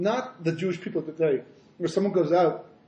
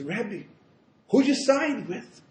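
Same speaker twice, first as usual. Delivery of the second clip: high, slow, drawn-out punch line; daring question; 6 semitones higher, much slower than usual. Acted. Chassid asking what no one dared, high and slow. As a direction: pose the bold question slowly, voice raised.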